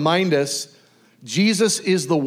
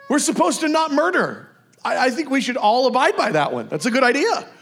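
high, lightly comic agreeing voice; hammed-up reasonable approval, pitched up; mock agreement; 8 semitones higher than usual. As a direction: play an earnest follower readily agreeing. Acted agreement about not murdering.

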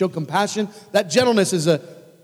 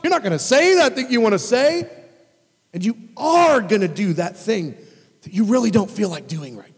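stern command to body; 5 semitones higher, 3 dB louder than usual. Retold or imitated. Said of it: "I beat my body".

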